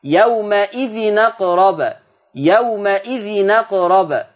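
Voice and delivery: يومئذ أقرب slow with the tanween n carrying fath, yawma'idhinaqrab; slow recitation, open nun before أقرب; transferred hamza vowel. Shown as a demonstration. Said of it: "تبقى نون مفتوحة".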